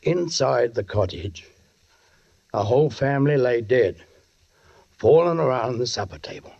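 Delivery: low brooding narration over music; grim narration. A narrator's reading. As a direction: tell it heavily, as a haunted memory. Sergeant narrates grim scene.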